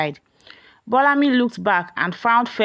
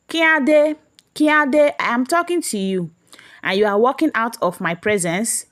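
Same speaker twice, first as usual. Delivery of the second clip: roaring; 4 semitones higher than usual. Acted. Mother roaring at son walking out on her. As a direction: roar at him to stop. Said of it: "she roared".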